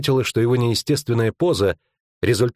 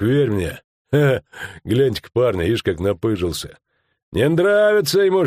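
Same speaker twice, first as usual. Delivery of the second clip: mocking rustic thug; 5 semitones higher than usual. Black-moustached man taunting Skomlik, jeering rustic voice. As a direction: needle Skomlik with a grin.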